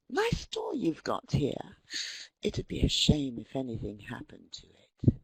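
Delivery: veiled threat. Acted. Mobster leaning on a small shopkeeper, quietly menacing. Acts a mafia extortion threat.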